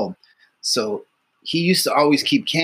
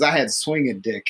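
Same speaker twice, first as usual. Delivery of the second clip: retold shout; 2 semitones lower than usual. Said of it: "He goes, he goes".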